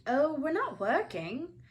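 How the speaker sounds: put-on lightly bright young Harry. A narrator's reading. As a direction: answer brightly, as a cheerful boy. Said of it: "Harry told him brightly".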